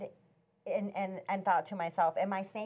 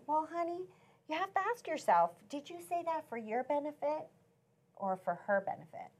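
lightly voiced patient husband; imitating gentle husband; 8 semitones higher than usual. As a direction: gently lead her to reconsider. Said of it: "he just strokes me, and he says".

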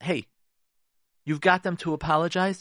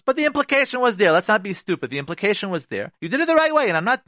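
heated emphasis; 6 semitones higher, 5 dB louder than usual. Real, not acted. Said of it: "heated emphatic point".

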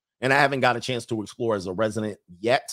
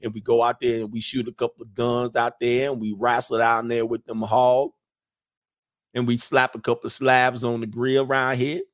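put-on Southern boy. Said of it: "I got me a Southern boy down here".

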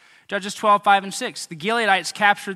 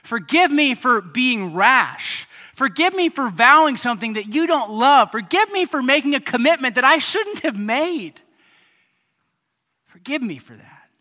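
prayer; 4 semitones higher, 4 dB louder than usual. Shown as a demonstration. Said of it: "Just go".

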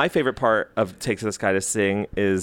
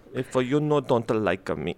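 put-on Mexican-ish accent; 2 semitones lower, slower than usual. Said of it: "sounded very Mexican".

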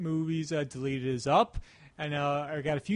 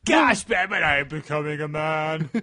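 put-on squeaky teen voice; 7 dB louder than usual. Mock puberty voice.

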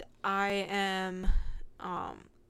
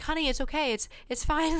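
lightly voiced, higher soothing customer; reassuring; 7 semitones higher than usual. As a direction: comfort a stranger on the verge of tears. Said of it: "reassure me it's okay".

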